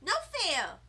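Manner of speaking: hammed-up little-girl objection; upset protest. A narrator's reading. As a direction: cry out that it's not fair. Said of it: "I said".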